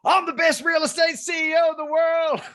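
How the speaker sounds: high, loud triumphant yell. Retold or imitated. CEO out of his seat yelling his new title, loud and high. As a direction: yell it at the top of your lungs. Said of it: "yelling at the top of his lungs".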